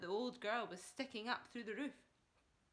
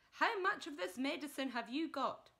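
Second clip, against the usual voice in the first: eager; 6 semitones higher, 6 dB louder than usual. Acted. Father questioning eagerly.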